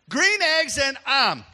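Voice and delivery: a father proudly reports the reading; proud "Ham" as "I'm". Retold or imitated. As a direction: announce "Green Eggs and I'm" proudly and slowly. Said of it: "That's the way he talks in Jamaica".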